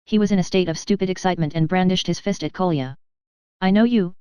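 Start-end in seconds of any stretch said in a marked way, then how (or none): none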